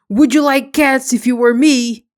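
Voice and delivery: loud, indignant mouse cry; high angry voice. Acted. The mouse snapping at Alice about cats, loud and angry. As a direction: demand it back in outrage. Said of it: "in a high, angry voice".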